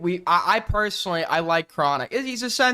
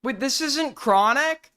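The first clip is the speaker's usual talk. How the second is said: surprised; 6 semitones higher than usual. Real, not acted. Realizes tweet isn't Chronic's.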